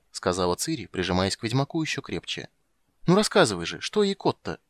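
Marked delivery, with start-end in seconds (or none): 3.1-4.6 put-on high, loud childish urging; a girl hungry for more; eager little girl. Ciri to Geralt, high eager urging. Ciri's voice.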